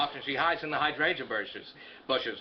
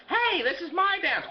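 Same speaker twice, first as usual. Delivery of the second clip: much higher, slow, whiny protest; whiny idiot; 13 semitones higher, 3 dB louder than usual. Retold or imitated. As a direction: play the offended dope. The idiot voiced, cutting in.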